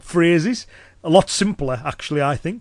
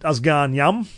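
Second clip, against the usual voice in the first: Cumbrian dialect phrase; slower than usual. Shown as a demonstration. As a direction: say it as a Cumbrian local would. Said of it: "if someone in Cumbria was to say".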